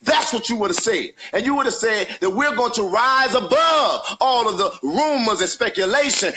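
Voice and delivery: heated, emotional protest; passionate anger. Real, not acted. Activist confronting the pastor on a livestream, heated and angry. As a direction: push back hard, voice rising in frustration. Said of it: "I'm mad as hell".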